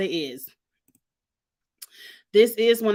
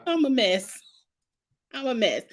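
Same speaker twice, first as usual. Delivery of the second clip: laughing; 2 semitones higher than usual. Real, not acted. Laughing at herself.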